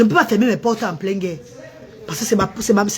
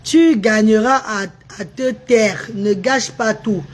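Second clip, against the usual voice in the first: slow mock quote; 3 semitones lower, much slower than usual. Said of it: "Le gros cul de ta maman".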